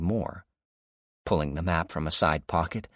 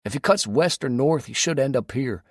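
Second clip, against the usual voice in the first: Dave on the radio; 7 semitones higher, 4 dB louder than usual. A narrator's reading. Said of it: "Dave said".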